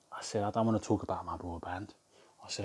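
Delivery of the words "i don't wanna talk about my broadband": low, hushed mock come-on; mock flirty. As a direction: murmur it like a cheeky flirt. Retold flirty prank on caller.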